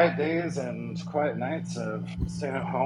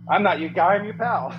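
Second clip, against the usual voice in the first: quoting a movie line; 6 semitones higher, 6 dB louder than usual. Retold or imitated.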